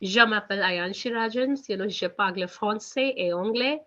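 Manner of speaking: said slowly, word by word; careful slow French for beginners; slow French demo. Shown as a demonstration. Teacher to class, spelling out French slowly. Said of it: "I'll say slowly".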